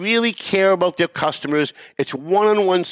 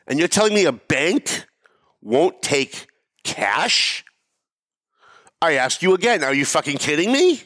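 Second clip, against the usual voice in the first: mid-yell disbelief. Retold or imitated. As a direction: spell out the outrage, pausing between words. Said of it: "while I'm in the middle of screaming at her".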